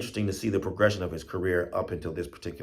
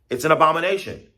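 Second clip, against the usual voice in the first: raised, louder cry of alarm; imitated scream; 8 semitones higher, 7 dB louder, faster than usual. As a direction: relay the squirrel's scream in a mock yell. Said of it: "we heard him screaming".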